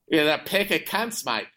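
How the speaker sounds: put-on Aussie agreement; Australian accent. American guest playing along with the hosts, Australian accent. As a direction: answer in a jokey Australian accent. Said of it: "I'll go to do the Australian accent".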